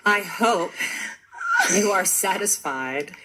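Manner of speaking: halting robot delivery with pauses; lightly voiced sex bot, word groups held apart; American sex bot robot. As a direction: do a stop-start American robot. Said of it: "just do the sex bot robot".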